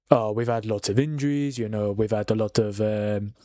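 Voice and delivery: a half-hearted Dutch manager impression; Arne Slot accent. Mocking Liverpool's manager in a faint Dutch accent. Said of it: "best Arne Slot accent I could have done".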